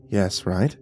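impatient hiss. Acted. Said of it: "the curator hissed impatiently".

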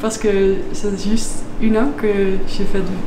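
French with a Dutch accent; non-native, careful French; foreign accent in French. Real, not acted. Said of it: "pardon, mon français c'est pas très bon". (accent étranger en français)

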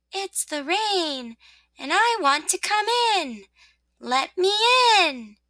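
high, slow, drawn-out rain plea; soft, gloomy voice. Acted. Rain asking rosebud to let it in, softly gloomy. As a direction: plead slowly, with a touch of gloom. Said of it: "The same soft, gloomy voice said".

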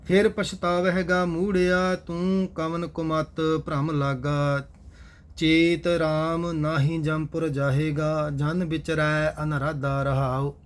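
steady, measured chanted reading of scripture; gurbani recitation. Acted. Teacher recites verses for the class in steady recitation. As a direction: recite each line evenly and devoutly.

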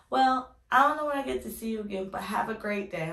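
lightly voiced little boy waving goodbye. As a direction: say goodbye like a polite little kid. Boy says goodbye turning around.

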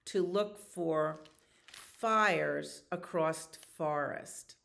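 lively storybook read; reading to children. A narrator's reading. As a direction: read the story aloud to the kids. Reads picture book aloud.

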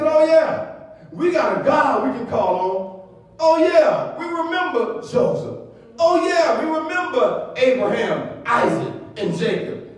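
preacher's lifted mock realization; dawning remembrance. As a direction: voice the people as it comes back to them. Voices Israelites remembering their God.

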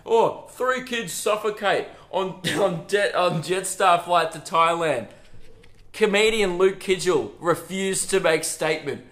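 mock news headline. Imagining the news report about the flight, mock anchor voice. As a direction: read it like a breaking headline, half laughing. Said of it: "That's what the headline's gonna read".

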